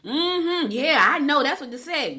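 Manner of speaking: high, loud imitation of mom; loud, high-pitched mock phone chatter; mimicking mother's chatting. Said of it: "That's how she used to talk".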